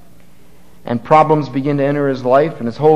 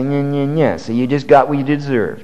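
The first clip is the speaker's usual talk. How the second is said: mock pouting. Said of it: "Is God gonna pout? Turn his back and say".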